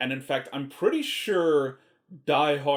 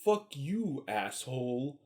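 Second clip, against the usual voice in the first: dry and cool, trailing softer; deadpan; 5 dB quieter, slower than usual. Retold or imitated. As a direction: toss it off like it's nothing. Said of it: "Schwarzenegger's just like".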